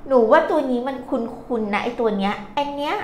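hint of a student querying the teacher; puzzled pupil. Many pupils ask teacher about a familiar-looking character, puzzled. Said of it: "หลายคน เอ๊ะ เราซื้อคะ".

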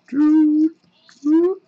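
high, loud little doops; playful "doop" noises. Real, not acted. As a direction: pop out high-pitched doops while flipping. Imitated noise while flipping cards.

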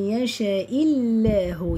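"يشاء الله" slow, with a thin l in "الله"; light lam. Shown as a demonstration. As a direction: stretch "الله" keeping the l light. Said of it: "يبقى لام لفظ الجلالة مرققة".

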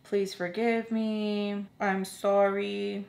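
mock apologizing, drawn out slowly; slow, dragged-out mock apology; retold apology. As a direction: imitate a drawn-out, pleading sorry. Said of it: "She was just apologizing".

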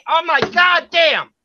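drawn-out, high-pitched exasperation; exasperated outburst. Real, not acted. Parent cut off mid-explanation, exasperated cry. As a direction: burst out, fed up with interruptions. Interrupted while explaining a meeting.

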